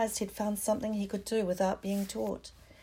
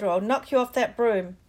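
threat; 2 semitones higher, 7 dB louder than usual. Acted. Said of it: "Harry called".

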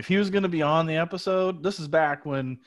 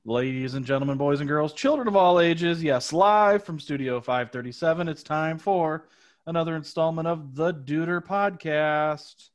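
ringmaster; 2 semitones higher than usual. Acted. Podcast intro announcement.

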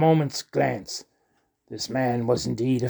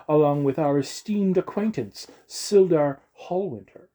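lightly voiced haughty noble; 4 semitones higher than usual. Noble Lewis parleys at the door.

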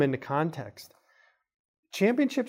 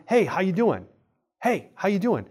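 mock teammates greeting; 6 semitones higher, 3 dB louder than usual. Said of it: "everybody's going".

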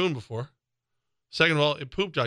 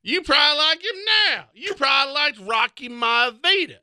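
redneck fan voice; 11 semitones higher, 3 dB louder than usual. Pretend.

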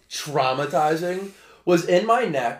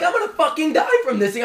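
mock panic; 10 semitones higher, faster than usual. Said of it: "I'm like".

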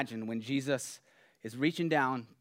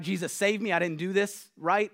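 raised-voice plea for rescue; crying out; 6 semitones higher, 4 dB louder than usual. Acted. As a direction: call out for help, higher and louder. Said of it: "we have to cry out".

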